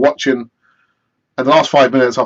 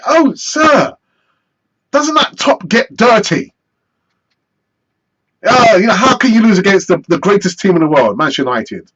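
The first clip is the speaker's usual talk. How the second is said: higher mock kid voice; 3 semitones higher than usual. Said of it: "he said to me".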